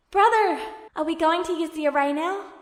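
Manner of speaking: put-on a nervous young voice calling out; Alphonse's voice. A narrator's reading.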